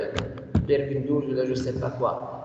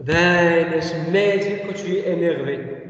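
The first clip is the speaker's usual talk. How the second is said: acted annoyance demo; 3 dB louder than usual. Shown as a demonstration. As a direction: stretch it out, as a demonstration. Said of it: "ما غاديش تكون انت انيرفي نقول لك".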